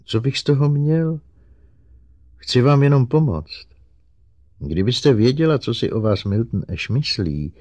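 high-pitched, eager-to-help robot; earnest robot. Acted. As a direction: plead insistently in a high robot voice. Narrator voices Herbie the robot.

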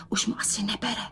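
unvoiced hushed whisper. A narrator's reading. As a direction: whisper behind his back. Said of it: "A pošeptala". (šeptem)

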